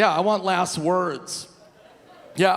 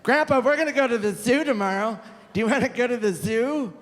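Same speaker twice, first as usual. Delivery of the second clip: grandson; 7 semitones higher than usual. Pretend. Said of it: "If your grandson's like".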